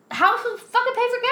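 high, loud outburst of disbelief; exasperated. Real, not acted. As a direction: throw it up in exasperation.

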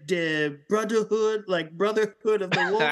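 hammed-up German accent; mock German accent. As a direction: butcher French with a German accent. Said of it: "was a German accent".

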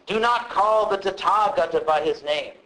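a measured, stately pronouncement; mock-solemn formal proclamation; formal and pompous. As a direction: declare it grandly, like a decree. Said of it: "this is pretty formal and pompous".

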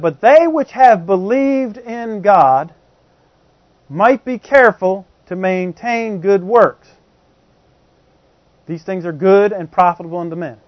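slow, deliberate reading of the verse; scripture reading. Acted. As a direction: read it out word by word. Reads scripture slowly.

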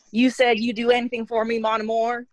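put-on the line again in a light Southern accent. Penny redoing the movie line in a light Southern accent. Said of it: "but with the Southern accent".

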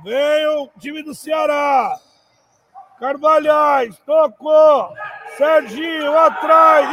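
rising excited narration; excited play-by-play. Real, not acted. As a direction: build up the attack. Attack builds.

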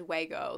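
"Wago" with a w for the L; baby-talk pronunciation. Shown as a demonstration. Vlogger showing her slipped "Wago", baby-talk pronunciation. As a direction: say "Wago", a babyish Lego. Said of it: "I'm saying, like, the fucking word Lego".

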